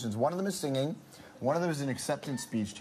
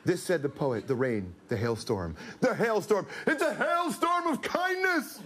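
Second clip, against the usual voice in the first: put-on Italian accent; 3 semitones higher than usual. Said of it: "read Roberto Benigni's acceptance speech".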